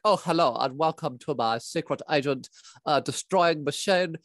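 a mild, underwhelming baddie voice, unhurried; Brian Butterfield impression. Jay Bozo greeting agents in a lightly done Brian Butterfield voice. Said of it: "impression of a character called Brian Butterfield".

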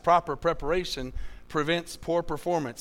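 lightly hurried alliteration; a little fast. Shown as a demonstration. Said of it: "If you say that too fast".

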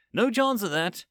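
high, breezy denial; cheerful. A narrator's reading. Anthropic dismisses the Overseer's worry, cheerfully. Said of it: "Anthropic said cheerfully".

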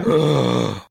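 loud theatrical gasp; mock shocked gasp. Reacting to book abuse.

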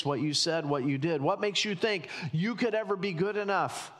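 lightly voiced inner accuser, quick and insistent; shaming inner voice. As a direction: pile up the reproaches like nagging thoughts. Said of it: "Those kind of shaming thoughts".

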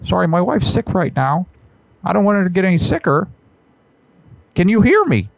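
a hint of an indignant professor; Jordan Peterson. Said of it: "Sir, this is Jordan B. Peterson".

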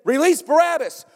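loud, high demanding yell; bay for blood like a mob; angry mob shout. Retold or imitated. Crowd shouting at Pilate.

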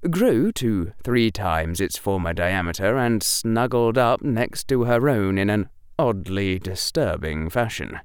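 usual speaking voice

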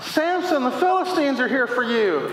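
high calling yell with Samson stretched out; mock yell. Delilah calls out to Samson as a hammed-up yell. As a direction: call out a warning, half-hammed. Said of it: "She yells out".

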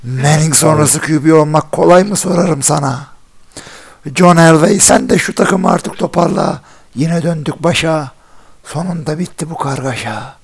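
dramatic poetry recital. Pretend. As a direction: recite it like a grand poet. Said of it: "şöyle bir sesle okuyacağım bak". (ağır, dramatik şiir okuma)

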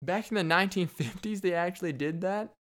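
high squeaky What then astonished question; imitating a stunned listener; mock disbelief. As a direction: play the gullible listener gasping. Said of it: "Y'all probably like".

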